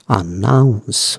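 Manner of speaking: অ্যানাউন্স drawn out slowly; pronunciation demo. Shown as a demonstration. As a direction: say অ্যানাউন্স slowly, as a model for learners. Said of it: "উচ্চারণটা অ্যানাউন্স".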